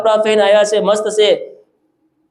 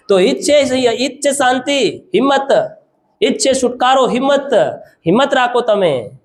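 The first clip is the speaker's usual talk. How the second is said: raised, rhythmic exhortation; rousing preaching; 7 semitones higher than usual. Real, not acted. Preacher urging the congregation to keep courage, rousing preaching. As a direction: urge courage in short emphatic bursts.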